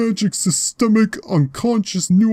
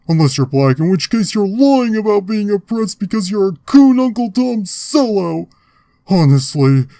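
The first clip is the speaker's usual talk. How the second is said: angry rant. Acted. Ranting at him.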